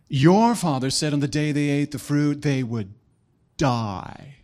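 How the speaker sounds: lightly voiced, measured warlock; a hint of ominous sorcerer. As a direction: pronounce it portentously, with heavy pauses. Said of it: "he didn't talk like that".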